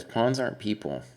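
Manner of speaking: "pawns aren't people" said with firm emphasis; stressed point. Real, not acted. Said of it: "the reason I'm stressing".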